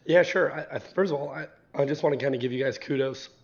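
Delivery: slightly hoarse voice. Real, not acted. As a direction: speak with a rough, tired throat. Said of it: "I'm a little hoarse today".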